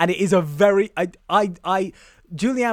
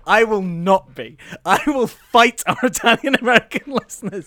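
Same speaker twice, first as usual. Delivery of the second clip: mock defiance; 4 semitones higher, 7 dB louder than usual. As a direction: declare war playfully, voice rising.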